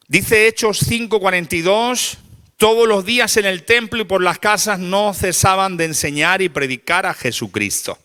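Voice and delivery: high, loud proclamation of a verse; forceful scripture reading. Acted. Preacher reads Acts to the congregation, forceful proclamation. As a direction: proclaim the verse loudly, easing down at the close.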